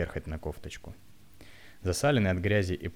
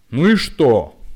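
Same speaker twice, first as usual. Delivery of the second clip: loud barked retort, pitched up; barking roar; 6 semitones higher, 15 dB louder, much slower than usual. A narrator's reading. Old woman roars at the young man in the queue, barking loudly. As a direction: bark it out at full throat. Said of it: "как рявкнет во всё горло".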